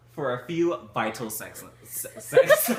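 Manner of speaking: high, loud giggling read. Real, not acted. Stumbling over a misread word, giggling. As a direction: laugh through the words.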